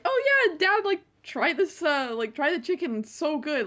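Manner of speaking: high, eager sales pitch easing off; mock-innocent coaxing. Kids luring dad to try the fake chicken, high eager coaxing.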